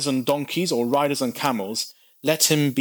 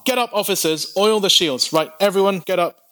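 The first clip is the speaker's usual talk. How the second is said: raised, higher officer's alarm call; 7 semitones higher than usual. Acted. Alarm in the soldiers' tent.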